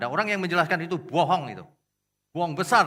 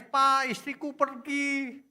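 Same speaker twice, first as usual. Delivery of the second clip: high, drawn-out mock wail; imitated crying; 11 semitones higher, 3 dB louder, much slower than usual. Husband tells his pastor his wife left, imitated crying. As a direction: wail like a weeping husband, stretched slowly. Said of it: "Suaminya nangis-nangis".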